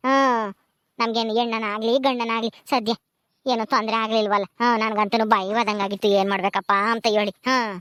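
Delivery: gently calm the new mother; midwife voice. Acted. Midwife after delivery, soothing.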